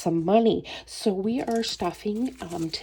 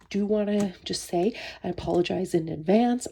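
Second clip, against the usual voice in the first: blocked nose and sore throat; stuffed up. Real, not acted. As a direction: talk through a head cold, stuffed up. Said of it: "I am quite, um, stuffed up, and I have a bit of a sore throat".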